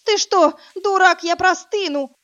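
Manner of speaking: high, loud panicked cry; gasped-out protest. Acted. Woman in a shower yelling at the brute. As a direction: blurt it out in shock. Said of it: "только и смогла выдохнуть я".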